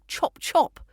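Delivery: a touch of a shout, kept polished; polished mock shout. Shown as a demonstration. Teacher showing how to hurry people along, polished mock shout. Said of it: "sound perfectly polished while shouting".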